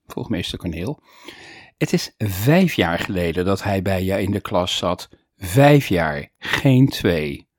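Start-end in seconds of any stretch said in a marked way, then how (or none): 1.8-7.5 firm, low-pitched stress on "vijf"; emphatic correction. A narrator's reading. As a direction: punch "vijf" each time as a correction. Pupil corrects the forgetful teacher.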